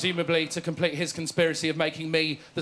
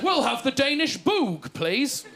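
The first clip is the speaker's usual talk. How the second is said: imitating dad; 5 semitones higher, slower than usual. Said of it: "he said".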